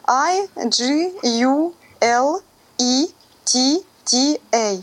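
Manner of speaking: spelled out slowly letter by letter; dictating. Shown as a demonstration. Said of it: "диктую по буквам". (диктует по буквам, медленно)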